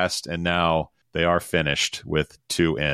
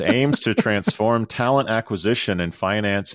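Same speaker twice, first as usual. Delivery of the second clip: ordinary talk, nothing marked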